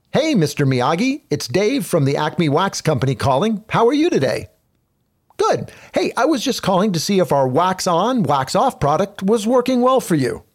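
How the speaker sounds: brisk, bright cold-call pitch; pushy sales call. Shown as a demonstration. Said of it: "the subtle difference you hear between those two opening lines".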